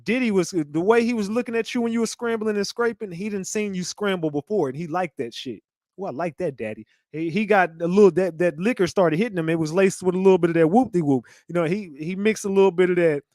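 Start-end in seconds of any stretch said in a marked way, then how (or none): 6.0-6.9 soft, low mock moan to daddy; hammed-up soft moan; breathy mock moan. Mock moaning quote.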